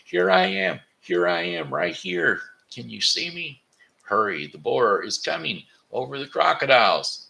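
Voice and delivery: high, loud desperate calling; dragon yelling. Acted. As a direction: shout to be seen across the river.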